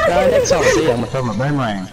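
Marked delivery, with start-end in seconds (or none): 0.1-0.9 excited yell. Real, not acted. Threatening joke, laughing.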